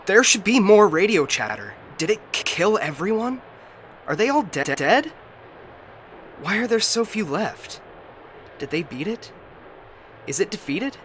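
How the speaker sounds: high, anxious, stammering questions; rising panic. Acted. AI fearing everyone is dead, panicked. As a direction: let dread push the voice up.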